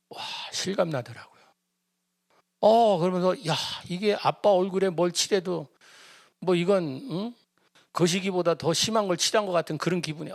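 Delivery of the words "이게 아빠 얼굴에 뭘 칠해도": normal talking voice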